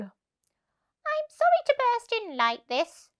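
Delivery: slow, hushed, high mole; whispering mole. Acted. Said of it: "said the mole".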